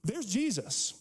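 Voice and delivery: a sudden realization; a moment of discovery; live it out. Shown as a demonstration. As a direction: say it like you just turned and saw him. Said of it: "That's different than just".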